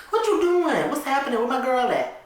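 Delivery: high, loud, startled; alarmed questions. Acted. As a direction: wake up alarmed and demand answers. Friend wakes to find girl gone.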